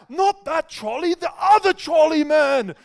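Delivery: high, very loud, drawn-out exasperated yell; hammed-up furious shout. The speaker correcting the new kitchen helper, mock furious shout. The speaker acted yelling at the mistake.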